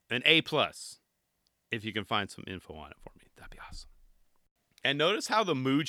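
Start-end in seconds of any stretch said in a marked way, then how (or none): 1.7-3.9 whisper. Acted. Vlogger whispering a bribe to his viewers, hushed. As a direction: drop to a fast whispered aside. Jokingly begging viewers for info.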